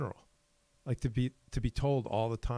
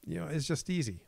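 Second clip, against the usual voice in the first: upbeat pep talk; 6 semitones higher than usual. Retold or imitated. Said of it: "when my self-talk is like".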